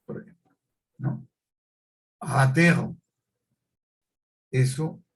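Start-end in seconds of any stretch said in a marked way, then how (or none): 2.2-3.0 "Ratero" with a guttural r; distorted r. Shown as a demonstration. Teacher demoing distortion: "Ratero" with guttural r. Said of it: "es una distorsión".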